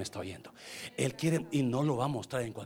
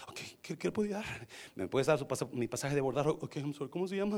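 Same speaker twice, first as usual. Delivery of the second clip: soft, halting customer-service voice; mock timid stammer; timid, trembling clerk; 5 dB quieter than usual. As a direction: play a nervous new agent, quiet and hesitant.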